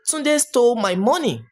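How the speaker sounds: "Tunde" punched, falling after it; name the thief with force: "Tunde"; stress on Tunde. Shown as a demonstration. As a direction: lean hard on the name "Tunde". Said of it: "For example, I can say".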